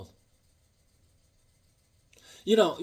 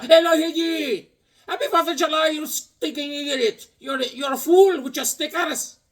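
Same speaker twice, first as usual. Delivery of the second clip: Bobby voice; 12 semitones higher, 3 dB louder than usual. Retold or imitated. Imitating Bobby greeting him on the Fourth with insults. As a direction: squawk it up high like a silly gas station guy. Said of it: "Bobby from the gas station".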